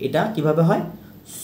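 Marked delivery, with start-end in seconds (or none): 1.4-1.4 "স" with a long, held aw, like "saw"; long aw sound. Shown as a demonstration. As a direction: stretch the vowel in "স". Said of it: "long অ sound".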